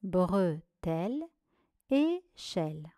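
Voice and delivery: "Bretelle" and "échelle" each in two separated syllables. Shown as a demonstration. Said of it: "Voici la correction". (« Bretelle », « échelle » relus syllabe par syllabe)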